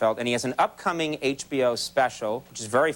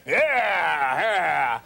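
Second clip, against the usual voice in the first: mock cheer; 3 semitones higher than usual. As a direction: whoop as the dog takes it. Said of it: "we're all like".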